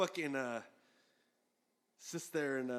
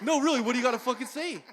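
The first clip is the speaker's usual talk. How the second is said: fast, loud, much higher retold yell; heated; 10 semitones higher, 12 dB louder, faster than usual. Imitating John at peak anger, fast loud yell. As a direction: yell the demand, rapid. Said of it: "Sounds a little heated".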